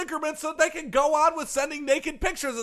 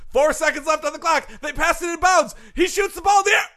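sports announcing; 3 semitones higher than usual. Acted.

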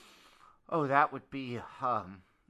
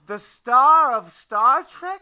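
surprised; 12 semitones higher, 13 dB louder, slower than usual. Acted. Surprised question.

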